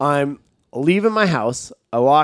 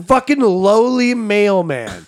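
mock snob; 5 semitones higher, slower than usual. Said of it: "What's wrong with being a mailman?".

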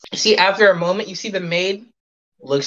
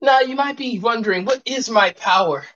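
haughty maid voice; 5 semitones higher than usual. Acted. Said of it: "Maid to Order goes".

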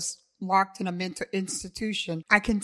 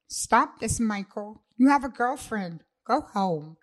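raised, higher, insistent protest; firm protest; 3 semitones higher, 4 dB louder than usual. Acted. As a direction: push him off with a firm raised voice. Pushing him away, protesting.

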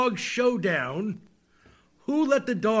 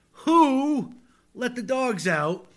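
slow, grave reading of a pop lyric; mock dramatic reading; 3 semitones higher, slower than usual. Shown as a demonstration. Host reading song lyrics aloud to listeners, mock solemn. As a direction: read it like solemn poetry. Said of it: "as I read them aloud to you".

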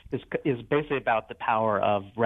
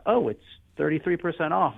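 pleased; 5 semitones higher than usual. Retold or imitated. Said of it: "easy emotional satisfaction of".

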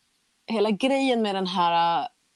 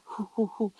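quick puffed breaths, softly acted; imitated feverish panting; 3 semitones higher, 4 dB quieter than usual. Patient recalls sweating with a huge fever, mock panting. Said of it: "jag bara svettades och så här".

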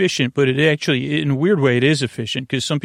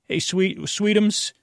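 higher, lovey-dovey sweetheart voice; cooing pet names; 7 semitones higher, slower than usual. Pretend. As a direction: coo it to a sleepy partner. Pet names in pretend couple banter.

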